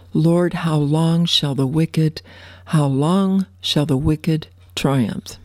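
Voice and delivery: slow, deliberate lament; slow mournful reading; scripture reading. Acted. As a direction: stretch out each how long.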